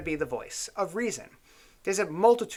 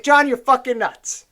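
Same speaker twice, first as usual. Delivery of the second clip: mocking others; 5 semitones higher, 6 dB louder, slower than usual. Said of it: "everyone was like".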